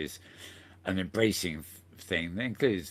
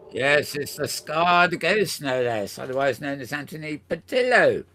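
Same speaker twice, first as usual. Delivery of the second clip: loud, higher showman's introduction; mock announcer; 6 semitones higher, 8 dB louder than usual. Host introduces a regular contributor, mock announcer. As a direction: announce it grandly, drawing out the opening.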